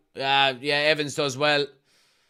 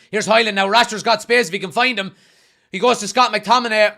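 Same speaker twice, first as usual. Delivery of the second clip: excited; 5 semitones higher, 6 dB louder than usual. Real, not acted. Attack building on the pitch.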